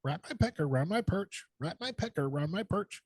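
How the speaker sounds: singsong parrot voice; talking parrot. Acted. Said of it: "the parrot looks at him and says".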